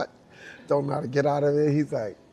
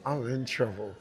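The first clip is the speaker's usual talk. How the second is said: inner panic; 6 dB quieter, slower than usual. Retold or imitated.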